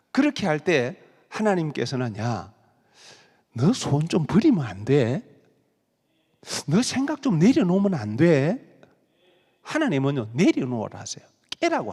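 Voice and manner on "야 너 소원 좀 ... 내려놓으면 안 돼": God's voice. Retold or imitated. God speaking to believer.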